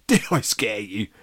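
loud, eager ghost; excited. A narrator's reading. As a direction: ask eagerly after your scare. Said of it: "said Chomper excitedly".

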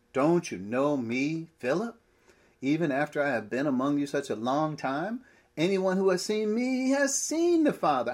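exasperated Jesus. Acted. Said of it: "trying to show the mood of his questioning".

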